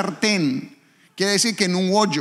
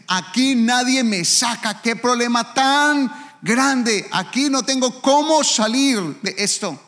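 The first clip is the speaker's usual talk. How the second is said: slow, higher desperate plea; despairing lament; 6 semitones higher, slower than usual. Retold or imitated. Someone stuck in a pit, slow and despairing. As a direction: cry out that there's no way out, slowly. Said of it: "cuando alguien dice".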